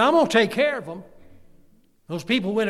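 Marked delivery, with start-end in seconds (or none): 0.0-1.0 loud, higher, thundering declaration; booming God voice. Acted. Preacher booming God's promise to protect his people. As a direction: boom it out as God himself.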